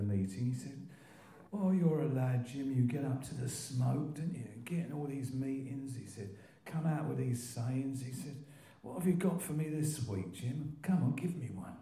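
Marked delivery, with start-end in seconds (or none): 1.5-6.0 lightly voiced old-timer, pitched up; Len B impression. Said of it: "I could actually impersonate him to a T". 6.7-8.0 lightly voiced slow old-timer; hint at an old Croydon character, higher and slower; Len B impression. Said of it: "I could actually impersonate him to a T". 8.8-11.8 lightly voiced eighty-year-old, pitched up; Len B impression. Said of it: "He was, like, nearly eighty".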